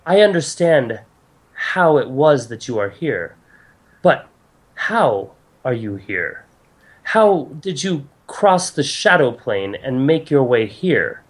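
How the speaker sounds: deliberate goddess, pressing for an answer; questioning goddess. Acted. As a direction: probe them with measured, formal questions. Game master voices goddess.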